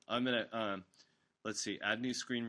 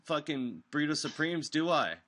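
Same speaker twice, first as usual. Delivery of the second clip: loud, higher, heated rant; cussing out caller; 6 semitones higher, 7 dB louder than usual. Retold or imitated. DJ cussing out a caller live on air, loud and heated. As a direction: tear into the caller, loud and raised. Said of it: "I was like".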